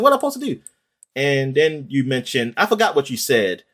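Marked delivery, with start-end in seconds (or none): 0.0-0.6 high, exasperated plea; lightly hammed-up helpless question; mock panic. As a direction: retell the panic as the skeletons swarm. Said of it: "I said".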